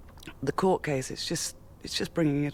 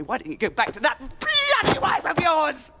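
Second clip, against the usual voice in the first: higher, bitter shouted taunt; angry shout; 10 semitones higher than usual. Acted. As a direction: hurl it at him. Furious outburst at partner.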